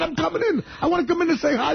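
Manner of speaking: high-pitched, teasing call; mock eager. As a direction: play the pest insisting on coming in. Taunting the teacher at the window.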